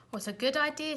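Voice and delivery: high, eager exclamation; Zog's happy cry; eager delight. A narrator's reading. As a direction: jump at the idea. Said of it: "said Zog".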